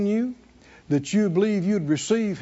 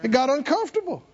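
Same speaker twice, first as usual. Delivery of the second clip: raised, insistent preacher's delivery; emphatic preaching; 6 semitones higher than usual. Acted. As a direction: preach it with drive, pitched up. Preaches the story.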